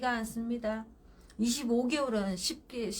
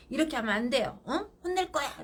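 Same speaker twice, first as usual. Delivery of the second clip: a mother's rising threat, pitched higher at the end; mock scold that climbs to a sharp high threat; 4 semitones higher than usual. Mother threatening her shouting toddler, higher mock scold. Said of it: "라고 하잖아요".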